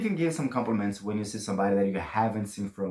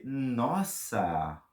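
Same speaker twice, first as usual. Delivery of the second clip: amazed; much slower than usual. Shown as a demonstration. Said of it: "Or you can say".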